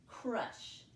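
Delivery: crush said slowly, sound by sound for spelling; crush, segmented slowly so each sound is heard; stretched-out word for spelling. Shown as a demonstration. Teacher sounding out crush for students to spell it. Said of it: "Let's go back and spell that word".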